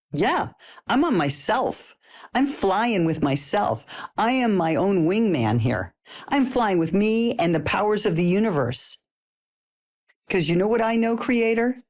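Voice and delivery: high, swooping, stretched-out exuberance; triumphant comeback. Acted. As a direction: revel in it, drawing out the words. Playful triumphant comeback to drugs question.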